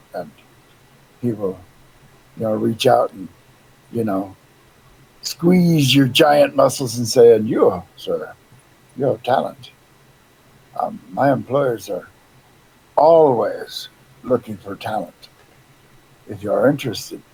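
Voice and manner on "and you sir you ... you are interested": put-on Spanish-accented voice. Playing a talent scout named Diego, Diego's Spanish accent. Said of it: "got a Spanish accent".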